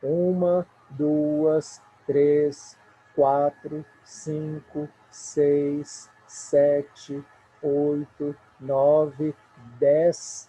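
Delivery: loud, each number set apart; counting syllables. Shown as a demonstration. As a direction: count out each one firmly. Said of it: "Se nós contarmos aqui".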